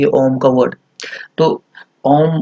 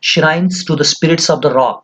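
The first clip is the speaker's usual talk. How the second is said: slow reading; 2 semitones higher, much slower than usual. Shown as a demonstration. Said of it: "इसने meaning दिया आगे कामा डाल के".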